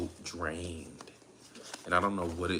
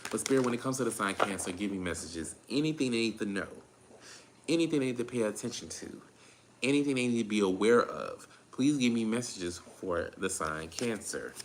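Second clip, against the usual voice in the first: spirit invocation; 3 dB quieter than usual. Real, not acted. Invokes Spirit for the reading.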